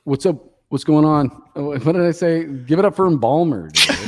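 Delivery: echoey room sound; cave echo. Real, not acted. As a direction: voice echoing in an empty house. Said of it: "you sound like you're in a cave".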